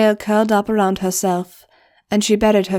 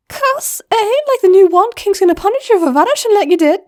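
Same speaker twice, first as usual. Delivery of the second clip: high, louder pleading goblin; a much higher eager friend; Pinion's voice; 13 semitones higher, 6 dB louder, faster than usual. Acted. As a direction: coax her to stay.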